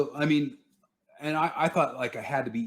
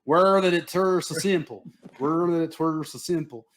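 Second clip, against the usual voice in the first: attempted British accent; 7 semitones higher, 5 dB louder than usual. Kid struggling to copy the British coach, attempted British accent. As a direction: overdo a clumsy British accent, pitched high. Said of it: "the other kid's going".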